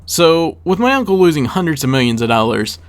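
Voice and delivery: ordinary talk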